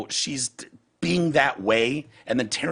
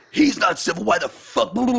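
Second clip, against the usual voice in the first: higher, louder mock outrage; mock angry retort; 8 semitones higher, 4 dB louder than usual. Mocking a commenter's furious reply, higher and louder. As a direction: snap back as the hateful poster. Retold angry Facebook comeback.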